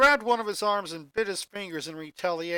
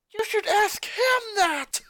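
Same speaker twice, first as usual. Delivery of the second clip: high, loud and slow alarm; much higher, louder, drawn-out warning cry; urgent warning; 5 dB louder, slower than usual. A narrator's reading. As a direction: shout it while pointing behind her. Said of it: "the genius pointed".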